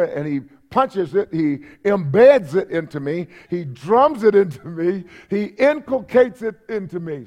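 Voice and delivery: "embeds", "drums", "inculcates" each hit hard in a rhythmic list; emphatic hammering. Shown as a demonstration. Acts out emphatic, repeated drumming-in.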